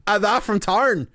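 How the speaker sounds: slow, high mock British villager; mock British accent. Gamer imitating the game's British greeting, in a put-on British accent.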